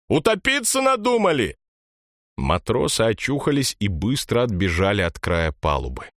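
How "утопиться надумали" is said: put-on high, scolding old pirate woman; cursing grandma. A narrator's reading. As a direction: curse the sailors out. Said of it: "бранилась баба Сандра". (бранящаяся бабка-пиратка)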